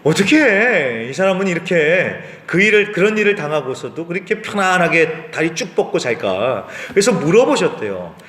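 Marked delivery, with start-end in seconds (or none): 0.0-6.7 lightly acted disbelief; mildly incredulous, imitating a puzzled wife; retold bafflement. Pastor retelling a wife's amazement at her sleeping husband, mildly baffled. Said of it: "하도 기가 막혀가지고".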